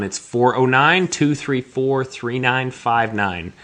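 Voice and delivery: slow, deliberate number reading; infomercial read. Shown as a demonstration. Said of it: "I sound like an infomercial".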